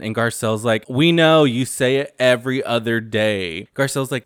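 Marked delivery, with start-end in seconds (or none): 0.9-3.7 exasperated retort. Retold or imitated. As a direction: throw it out loudly, imitating a fed-up retort. Acted exasperated retort in retold quarrel.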